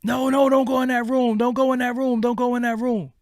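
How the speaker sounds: panicked shout at a horror movie character; yelling at the screen. Acted. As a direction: warn them off, loud and urgent. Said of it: "You watching a movie".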